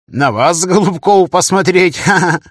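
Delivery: high, loud teasing with a laugh at the end; gleeful laughing. Acted. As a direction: crow with delight as you tease. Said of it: "Не на шутку развеселился Тихий".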